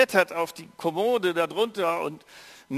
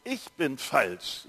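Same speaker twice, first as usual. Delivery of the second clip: slow shamed confession; much slower than usual. Shown as a demonstration. Preacher voices the feeling of shame, slow. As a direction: let each word sink slowly. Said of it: "Gefühl, das ausdrückt".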